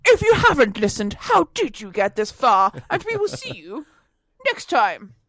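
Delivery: Tom. Acted. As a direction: stretch out each closing phrase like a podcast host. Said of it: "Your full Tom impression".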